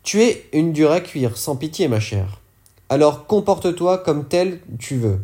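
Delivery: lightly voiced boss, coldly telling her to toughen up; a hint of a hard mentor's voice; lightly voiced Jax. Jax's remembered words.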